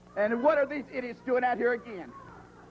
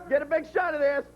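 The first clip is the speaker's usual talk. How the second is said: mocking Tony, pushed harder. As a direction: repeat it with more push to ridicule him. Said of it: "This is what Tony's saying".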